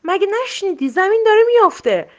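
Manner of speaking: high, loud trumpeting cry; elephant's bellow. A narrator's reading. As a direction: bellow back at the lion. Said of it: "فیل نعره زد".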